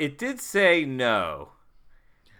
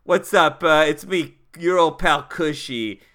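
put-on higher, chummy pitch to an old pal; friendly, higher-pitched sweet talk; straight-up appeal to the house; 5 semitones higher, 3 dB louder than usual. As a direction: greet the house like a buddy, pitched up and coaxing. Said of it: "gonna be straight up with this house".

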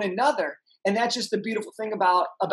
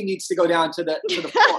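laughing; 2 semitones lower than usual. Retold or imitated. Retelling absurd elevator scene.

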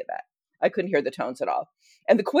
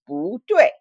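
stern teacher correction; 3 semitones higher, 4 dB louder than usual. Retold or imitated. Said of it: "the only thing she said to me for five weeks was".

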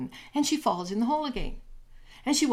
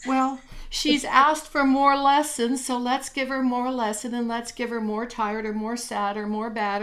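exasperated spirits; 3 dB louder than usual. Acted. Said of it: "they go".

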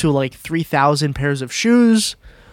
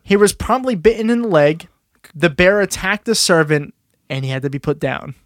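story read-aloud. Acted. Host telling co-hosts how the bear turned, storytelling. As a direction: read the mishap through to its grim end.

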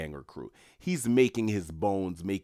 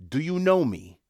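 menacing mobster; 7 semitones higher, 5 dB louder than usual. Retold or imitated. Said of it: "Mister French goes".

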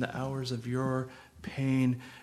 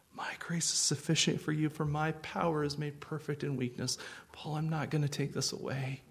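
softer, tender and consoling; gentle, sympathetic; 3 semitones higher, 5 dB quieter than usual. Pretend. Preacher voicing Jesus comforting Paul, softly gentle. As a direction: say it like you share his hurt. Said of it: "he said it with perfect gentleness and sympathy".

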